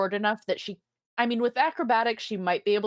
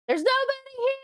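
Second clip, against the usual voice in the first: high-pitched mock yell; yelling back. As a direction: call out high into an empty room. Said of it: "and yell back".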